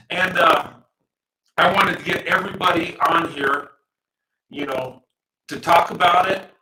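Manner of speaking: metallic voice filter; glitchy robotic stream audio. Real, not acted. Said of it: "my audio sounds robotic".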